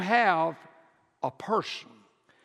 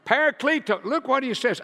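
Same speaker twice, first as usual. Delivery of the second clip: laughing; 7 semitones higher, 5 dB louder than usual. Real, not acted. Preacher laughs saying Greek word.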